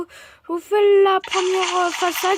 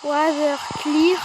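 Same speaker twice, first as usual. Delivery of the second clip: slow, deliberate English accent; mock English accent; slower than usual. Shown as a demonstration. Gamer showing off a game command, mock English accent. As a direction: stretch both words in an English accent. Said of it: "Avec mon superbe accent anglais".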